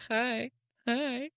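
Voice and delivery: high teasing hi hi; sing-song it like mocking friends. Friends teasing a couple with a high teasing hi hi. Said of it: "all your friends are like".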